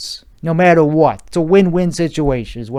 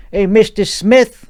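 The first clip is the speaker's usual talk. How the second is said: a lightly higher, slow friendly greeting; sweet talk voice; 6 semitones higher, 3 dB louder than usual. Acted. Adjuster greeting the customer, mildly sweet phone voice. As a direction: greet him like a pal you're about to fleece. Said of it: "sweet talk voice".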